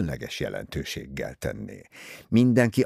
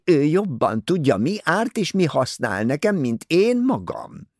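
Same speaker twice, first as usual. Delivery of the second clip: higher, louder self-pitying matron; complaining society lady; 8 semitones higher, 4 dB louder than usual. Acted. Mother complaining to Poirot about her daughter, high and louder. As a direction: whine about the heartless daughter.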